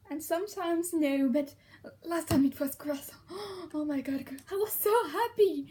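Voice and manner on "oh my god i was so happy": excited joy. Retold or imitated. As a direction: gush about the bread. Retelling joy over baguette.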